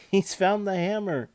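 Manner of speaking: breathless, panting it out. A narrator's reading. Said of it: "said Benjamin breathlessly".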